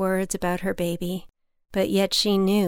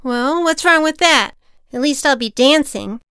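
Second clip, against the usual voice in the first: put-on higher, louder cheeky boy; defiant boy; 5 semitones higher, 7 dB louder than usual. A narrator's reading. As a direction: talk back cheekily. Defiant boy talks back.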